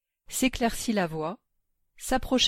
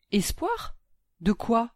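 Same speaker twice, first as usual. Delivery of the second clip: irritated disbelief; 3 semitones higher, slower than usual. Acted. An old mother, irked, echoes the social worker's word in disbelief. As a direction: echo the word back, baffled and annoyed. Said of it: "sans tenter de cacher son irritation".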